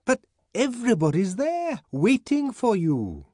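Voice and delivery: high, loud pleading shout; shouting through a door. A narrator's reading. Bernard shouting to the savage through a locked door, loud and high. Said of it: "Bernard had to shout through the locked door".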